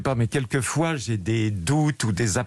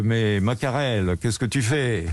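put-on southern French accent. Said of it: "en imitant l'accent de votre grand-père".

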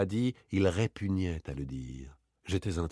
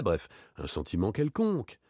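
casual approximation, falling away at the end; offhand. Acted. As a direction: toss it off as unimportant. Offhand phrase, then thrown back. (désinvolte)

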